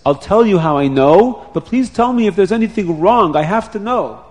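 urgent plea. Acted. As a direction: plead for the truth.

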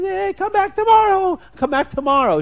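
high, loud acted yell; high-pitched panicked call, easing slightly on the repeat; calling back while fleeing. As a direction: shout it back over your shoulder in mock panic. Fleeing woman calls back over shoulder.

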